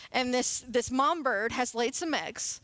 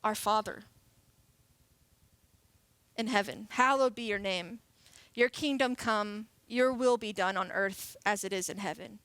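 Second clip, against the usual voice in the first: measured, lower scripture reading; unhurried Lord's Prayer, settling lower; prayer recitation; 4 semitones lower than usual. Acted. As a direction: recite the prayer reverently, with pauses.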